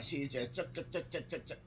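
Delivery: rapid chugging noises; imitated gulping. Niece drinking vodka like water, imitated chugging. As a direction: mimic quick glugs from a bottle.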